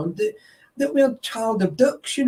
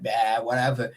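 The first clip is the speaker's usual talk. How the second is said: low dismissive shrug; 9 semitones lower, 4 dB quieter than usual. Retold or imitated. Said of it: "I'm like".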